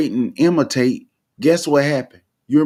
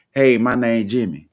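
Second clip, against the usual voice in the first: relaxed "Hey, my name Jimmy" in everyday Black American English, no "is"; casual Black vernacular; 2 semitones lower than usual. Shown as a demonstration. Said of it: "instead of saying".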